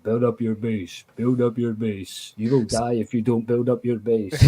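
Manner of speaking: measured, repetitive android voice; imitation of a nagging android assistant. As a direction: drone the order like a game's android. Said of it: "this android voice in your ear saying".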